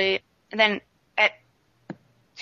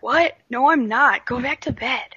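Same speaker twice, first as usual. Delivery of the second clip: indignant denial; 5 semitones higher than usual. Retold or imitated. Friend's sleepy denial retold.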